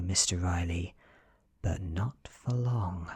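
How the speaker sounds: a vampire's veiled death threat to a frightened man; menacing threat. Acted. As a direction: threaten him, close to losing control. Vampire threatens to kill Riley.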